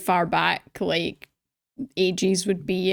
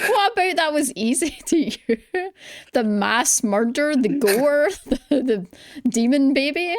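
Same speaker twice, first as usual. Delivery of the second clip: higher-pitched, laughing disbelief; incredulous; 4 semitones higher than usual. Real, not acted. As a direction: challenge it in amused disbelief. Incredulous at co-host calling it easy.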